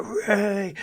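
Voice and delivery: high-pitched retold hooray; mock cheer. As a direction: imitate going nuts with a contained cheer. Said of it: "I'm cheering and going nuts and screaming".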